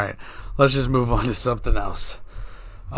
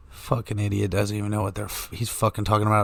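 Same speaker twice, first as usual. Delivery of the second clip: low, softer scornful mutter; contemptuous mutter; 4 semitones lower, 5 dB quieter than usual. Pretend. A stranger silently judging the speaker, scornful and softer.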